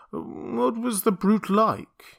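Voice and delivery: slow anxious question. Acted. Montgomery anxious.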